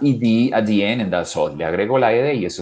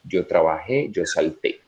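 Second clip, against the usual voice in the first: correct version; 4 semitones lower, 4 dB quieter, slower than usual. Shown as a demonstration.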